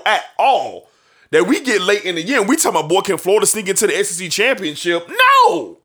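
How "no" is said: a sudden high, loud shout of no; emphatic no. Real, not acted. Co-host rejecting Florida's title chances, shouted no. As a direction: shut the idea down hard.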